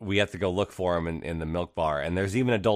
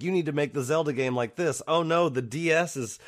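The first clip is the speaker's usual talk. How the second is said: higher-pitched mock fretting committee; raised-pitch, insistent mock fussing; nagging adults; 6 semitones higher than usual. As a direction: imitate anxious bosses piling on demands. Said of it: "all the adults in the room are like".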